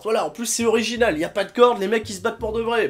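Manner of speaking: plus aigu et fort, insistant; énumérer avec véhémence; coup de gueule. Real, not acted. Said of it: "peut-être un peu coup de gueule". (tirade véhémente, voix haute)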